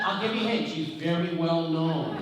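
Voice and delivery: imitated Chicago caller, slowing for the hint; Chicago accent. Woman caller hinting at her famous friend, in a Chicago accent. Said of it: "lady with this Chicago accent".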